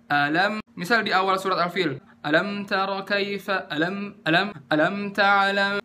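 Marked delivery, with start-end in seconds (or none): 0.1-0.6 "Alam" with the first vowel given its whole beat; full-beat hamzah. Shown as a demonstration. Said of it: "harusnya kan alam". 2.2-5.8 chanted recitation with the "a" of "alam" cut short; shortened hamzah. Shown as a demonstration. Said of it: "Ini nggak nyampe seharokat".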